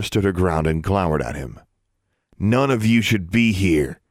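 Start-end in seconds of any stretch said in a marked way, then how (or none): 2.4-4.0 put-on mild stern growl at the girls. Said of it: "he growled".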